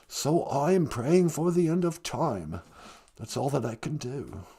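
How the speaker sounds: lightly put-on English accent; a hint of a posh British prince; mild English accent as Prince Harry. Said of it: "Prince Harry".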